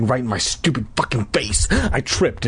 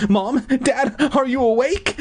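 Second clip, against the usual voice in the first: put-on child's voice; 11 semitones higher than usual. Boy wakes parents at night.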